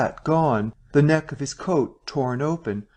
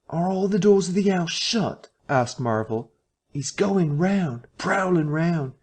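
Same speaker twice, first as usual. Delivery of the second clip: high, frightened questioning; fretful warning from hiding; anxious whisper-plea; 6 semitones higher than usual. A narrator's reading. Marvel peering out of the bar parlour, frightened.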